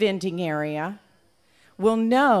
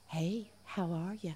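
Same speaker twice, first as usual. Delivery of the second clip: whispered sweet nothing; 11 dB quieter than usual. A narrator's reading. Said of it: "whispering first to the one".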